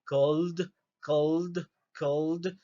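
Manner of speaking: "cold" repeated with a clear final D; teacher repeating "cold" for students; model pronunciation. Shown as a demonstration. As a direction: drill "cold", ending on D. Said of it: "Escuchen bien la pronunciación".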